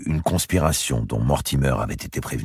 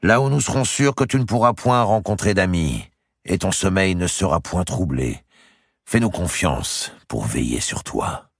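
a hint of a higher, ominous jailer; lightly voiced menace; 5 semitones higher than usual. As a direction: promise protection as a threat. Narrator voices captor menacing.

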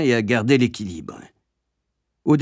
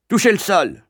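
higher-pitched dry command; curt order; 8 semitones higher, 4 dB louder than usual. A narrator's reading. Headmaster making the boy touch the floor, curtly. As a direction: issue it as a stern order. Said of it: "ordonna sèchement monsieur Coombs".

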